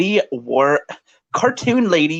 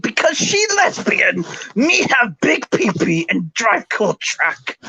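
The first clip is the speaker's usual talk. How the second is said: different voice again; 6 semitones higher than usual. Retold or imitated. Reading the comment again for viewers, bigger caveman voice. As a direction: belt the dim troll comment with more power. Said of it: "I gotta do that again".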